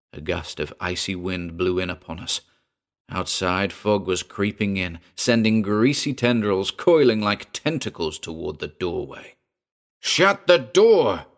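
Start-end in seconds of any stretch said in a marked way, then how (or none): 10.0-11.2 piercing, shrill, very high-pitched scream. As another man flings open the door, lunging across the room, screamed. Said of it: "Hayward screamed".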